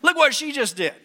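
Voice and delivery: high, loud, astonished; excited pointing. Retold or imitated. Witness in crowd pointing, high excited call. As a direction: call out in wonder. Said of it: "somebody says".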